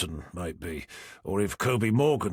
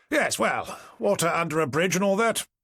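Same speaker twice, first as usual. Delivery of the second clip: nervous laugh; 7 semitones higher than usual. A narrator's reading. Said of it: "Forrester laughed, somewhat nervously".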